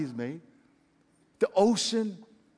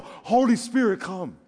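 earnest prayer; slower than usual. Shown as a demonstration. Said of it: "Say over and over".

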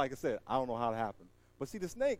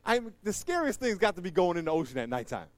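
ordinary delivery

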